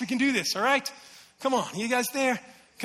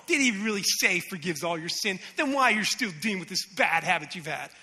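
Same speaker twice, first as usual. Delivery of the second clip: lowered voice of the deceiver; insinuating tempter; 4 semitones lower than usual. Acted. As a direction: question it low, planting doubt. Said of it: "The enemy whispers these things".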